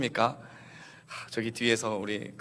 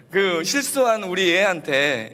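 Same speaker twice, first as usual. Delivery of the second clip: usual speaking voice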